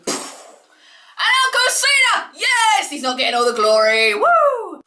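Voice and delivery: high, squealing cheer of delight; excited. Retold or imitated. Fan reliving the elimination, squealing with delight. Retelling excited wrestling moment.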